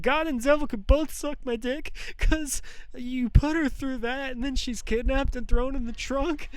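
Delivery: raging through tears at God; distraught outburst. Real, not acted. Cursing God and devil, choked with tears and laughter. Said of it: "I'm gonna try my best not to cry".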